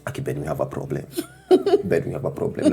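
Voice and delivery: impression of wife. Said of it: "my best impression of you is like".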